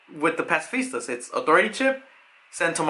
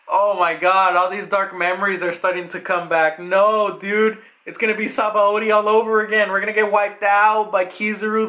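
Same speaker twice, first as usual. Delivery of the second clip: higher-pitched, mock panicky lament; hammed-up dismay, pitch held up; acted dismay; 4 semitones higher than usual. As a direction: play a worried crewmate dreading a repeat. Acts out Brook's dread at memories.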